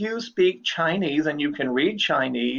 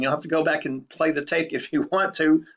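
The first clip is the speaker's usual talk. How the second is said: normal talking voice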